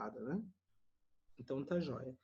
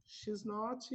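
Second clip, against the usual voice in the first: slow model; 4 semitones higher, 6 dB quieter than usual. Shown as a demonstration.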